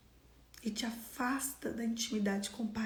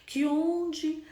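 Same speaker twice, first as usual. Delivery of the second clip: measured prayer with drawn-out emphasized phrases; public prayer. Real, not acted. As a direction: pray aloud for the congregation, stretching key words. Leads the congregation in closing prayer.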